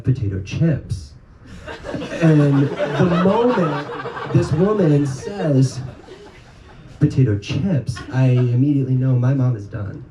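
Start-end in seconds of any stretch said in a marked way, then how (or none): 0.0-1.1 odd drawn-out lilt on "potato chips"; weird inflection. Retold or imitated. Waitress ends her list of sides, weird inflection on "potato chips". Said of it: "with the weirdest inflection goes". 7.0-8.0 "potato chips" set apart with an odd lilt; weird inflection. Retold or imitated. Waitress naming a side to mom, weird inflection on "potato chips". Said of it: "used the weirdest inflection".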